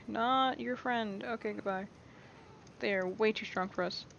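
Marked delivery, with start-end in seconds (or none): 0.1-1.2 drawn-out ominous line; slow it right down for the joke; slow dramatic reveal. Acted. Player ominously telling creatures he is not their friend.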